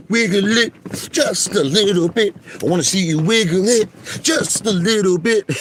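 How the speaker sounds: mock falsetto taunt; playful falsetto tease. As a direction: coax them in a silly high voice. Teasing viewer to wiggle it.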